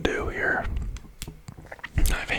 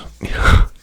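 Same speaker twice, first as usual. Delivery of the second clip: short voiceless burst of laughter; whispered laugh; 12 dB louder than usual. Real, not acted. Host amused at speaking Portuguese, whispered laugh. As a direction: laugh without using the voice.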